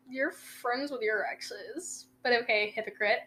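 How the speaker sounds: slow, soft, dry comeback; slow, quiet sarcasm calling her a hypocrite; sarcastic retort. Retold or imitated. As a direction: drag it out, pointedly unimpressed. Retorting to girlfriend's jealousy.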